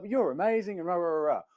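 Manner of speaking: high-pitched imitation of an effusive client; gushing praise. Client telling Matt he's amazing, gushing. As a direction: gush it high, tailing into rah-rahs.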